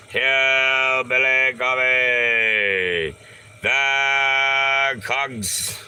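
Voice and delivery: mock announcer call; announcing. Real, not acted. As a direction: proclaim the name like a sign. Announcing product name loudly.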